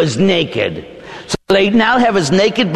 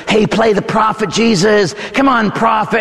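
raised-pitch jeering call; acted taunting; 6 semitones higher than usual. Soldiers pushing blindfolded Jesus around, taunting call. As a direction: goad the blindfolded prisoner.

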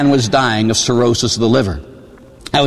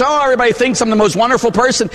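mock smug; 8 semitones higher than usual. Mocking a self-satisfied churchgoer.

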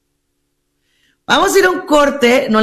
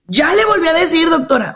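higher-pitched client protest to the doctor; acted-out exasperated patient; 6 semitones higher than usual. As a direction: insist it has already been done. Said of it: "Me llegan con esas al consultorio".

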